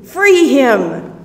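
loud, eager burst; Jesus, overjoyed, orders them to free him; enthusiastic. Acted. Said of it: "with enthusiasm".

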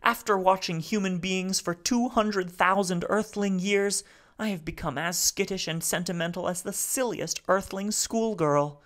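speaking haltingly. Acted. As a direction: Salo piecing his words together. Salo's voice.

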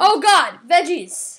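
loud hammed-up horror; mock disgust. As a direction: shriek at the veggies. Reacting to vegetables in disgust.

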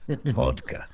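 vodka rolled out in a mock Russian accent; half-laughing mock Russian villain saying vodka; hammed-up Russian accent. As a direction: lean hard into a bad Russian accent. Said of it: "where's the accent?".

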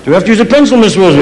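high mock kid question; clueless schoolchild. Pupil missing the teacher's instructions, high and childlike. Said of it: "put their hand up and say".

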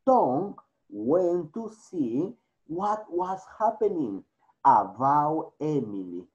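clear, steady storytelling voice for the class; story reading. Acted. Teacher reading a story to her English class, clear storytelling. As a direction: read the story aloud so students can follow.

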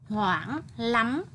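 hoảng read with rounded lips and a wide-open mouth; đọc hoảng tròn môi, miệng mở rộng; round-lipped hoảng. Shown as a demonstration. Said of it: "phải đọc tròn môi, miệng mở rộng ở tiếng hoảng".

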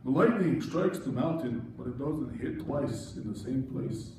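solemn movie voice. Acted. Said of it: "get into character".

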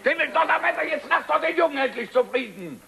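high-pitched, fed-up scolding; exasperated outburst. Acted. Bystander defends the son to father, exasperated outburst.

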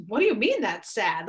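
mildly startled retort, retold; taken aback. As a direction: play back a surprised parent's question. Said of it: "Like, I was taken aback".

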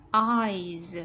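EYES with a clear final Z; Z ending sound. Shown as a demonstration. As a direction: hold the Z that closes "Eyes". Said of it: "Z ending sound".

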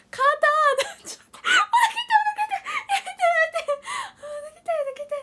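very high gasping laughter; laughing hard. Real, not acted. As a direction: laugh till it hurts, squealing.

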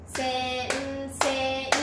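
"先 生" drawn out as se-n-se-i, chanted evenly; four separate morae. Shown as a demonstration. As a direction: give "先 生" four equal beats. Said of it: "四拍あります".

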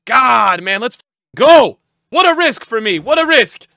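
high, loud celebration; elated, full-voice hype; triumphant shout. Real, not acted. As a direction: yell it out in triumph. Celebrating a risk paid off.

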